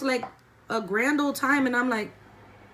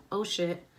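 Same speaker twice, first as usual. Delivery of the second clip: soft, lower dismayed oh shit; caught off guard; 4 semitones lower, 7 dB quieter than usual. Retold or imitated. Student realizes she's caught, quiet dismay. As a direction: let it slip quietly as the panic sets in.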